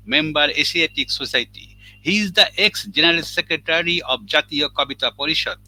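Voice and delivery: formal biography read-out. Real, not acted. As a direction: read out an honored guest's credentials. Host reads out poet's biography.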